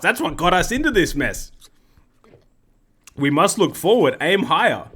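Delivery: mildly impassioned, articulate oration. Acted. Scandinavian addressing the council, understated impassioned tone. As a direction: make an earnest speech with a touch of passion. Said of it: "with an impassioned tone".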